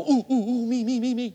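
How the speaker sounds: high, loud eager squeals; mock the eager hand-raiser begging to be picked; eager extrovert. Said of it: "the extroverts go".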